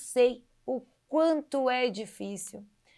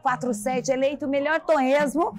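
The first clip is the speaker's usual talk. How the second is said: TV presenter. Acted. Host opens the food show.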